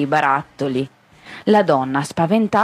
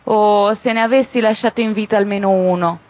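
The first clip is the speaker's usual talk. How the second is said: tearful lament; 5 semitones higher than usual. A narrator's reading. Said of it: "le venne da piangere e diceva".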